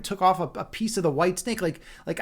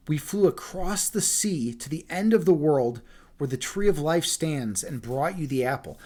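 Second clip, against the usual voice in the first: story narration; 2 semitones lower than usual. A narrator's reading. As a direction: read it like a bedtime storyteller. Reads the fairy tale aloud.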